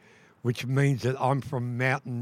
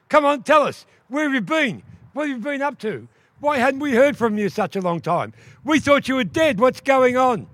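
much higher, loud excited questions; eager questioning; 10 semitones higher, 5 dB louder than usual. Acted. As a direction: pepper her with eager questions. Relatives excitedly question duck woman.

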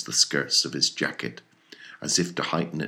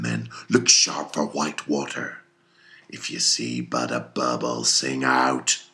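put-on stern old captain; 3 semitones lower than usual. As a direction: drive the crew on. Ahab commanding.

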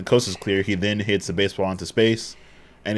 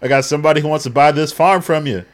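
put-on old prospector; 6 semitones higher, 7 dB louder than usual. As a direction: holler it like a grizzled farmhand. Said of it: "He's like".

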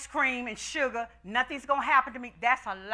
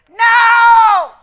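loud, high shout of refusal; 8 semitones higher, 16 dB louder than usual. Acted. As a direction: slam the answer down. Answering own question emphatically.

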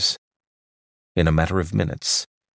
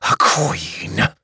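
despairing cry. A narrator's reading. Quick watching his drones fly off, crying out. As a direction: let it break out of him.

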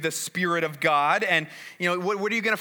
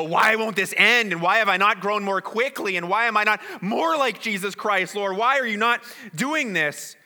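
frustrated plea; 4 semitones higher, 4 dB louder than usual. Retold or imitated. Frustrated believer crying out to God.

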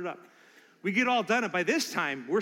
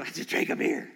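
inner thought; 5 dB louder than usual. Retold or imitated. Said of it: "remember thinking".

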